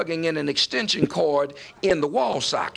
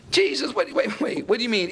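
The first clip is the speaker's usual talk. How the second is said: puzzled protest; 6 semitones higher than usual. Acted. Voicing the puzzled Jews questioning Jesus.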